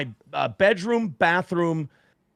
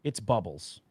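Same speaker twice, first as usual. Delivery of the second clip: lower, softer, hoping aloud; inner pleading; 6 semitones lower, 7 dB quieter than usual. Retold or imitated. Father praying the container holds bubbles, hushed. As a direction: murmur it to yourself in denial. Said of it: "in my head, I'm just going".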